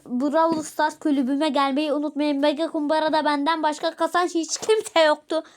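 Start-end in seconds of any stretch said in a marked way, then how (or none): 0.0-2.4 slow motion. Real, not acted. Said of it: "çok yavaş konuşmam gerekiyor".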